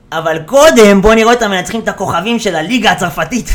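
loud, hyped mock advert voice; punchy mock trailer read; imitated league promo. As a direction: sell it like a TV promo. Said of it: "אז בפרסומות לליגה הצרפתית".

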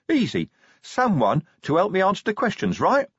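high, pleased troll voice; troll who has finally got it; brightened-up troll. A narrator's reading. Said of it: "at last brightened up".

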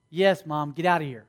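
low, bored brush-off; mock teenage impatience; dismissive daughter. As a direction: brush Mom off under your breath. Daughter brushing off her mom.

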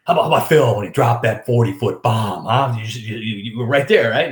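eagerly quizzing like a golf fan; excited boss. Retold or imitated. Boss asks about the forty-foot bomb, excited. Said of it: "He's all excited Monday".

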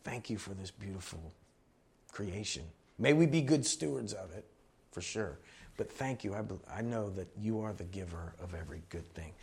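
low, soft retold prayer; quiet prayer. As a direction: recall a private prayer, hushed and low. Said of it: "I just said a prayer".

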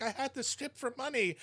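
high-pitched imitated plea; mock crying out. Host voicing the rapper's story, mock crying out. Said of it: "She's, like, literally crying out".

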